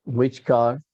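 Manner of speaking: "Which car?" rising on "car"; puzzled question, the rise on "car"; stress on car. Shown as a demonstration. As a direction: ask it, pushing up on "car". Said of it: "you have to mimic this".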